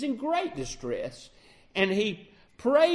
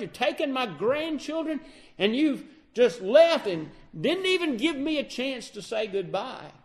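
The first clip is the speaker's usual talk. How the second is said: raised, aggrieved father-in-law voice; Laban's complaint; 5 semitones higher than usual. Retold or imitated. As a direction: protest like a wronged old father-in-law. Laban confronts the fleeing Jacob.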